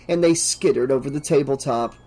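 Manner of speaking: ordinary delivery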